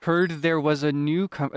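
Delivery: slow fisherman, crisply enunciated consonants; enunciated Willy voice. Acted. Fisherman greeting a newcomer, slow and carefully enunciated. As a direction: gradual rise and fall, carefully enunciated. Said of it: "he also really enunciates his".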